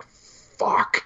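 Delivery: a hushed, breathy fuck under the breath; whispered curse. Retold or imitated. Hanna's handler alone at the window, whispering a curse. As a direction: whisper it to yourself like a secret.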